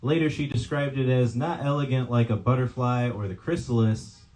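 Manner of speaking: measured poetry reading with falling line ends; poem reading. Acted. Poet recounting a date to an audience, measured poem reading. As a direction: read it line by line, pausing after each image. Reads own poem aloud.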